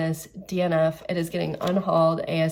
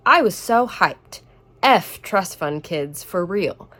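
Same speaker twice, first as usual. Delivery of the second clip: put-on slow, louder sarcastic read of a cringe young man's line; mocking the character; 5 dB louder, slower than usual. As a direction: read it like mocking a try-hard college guy. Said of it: "This is how the main character talks".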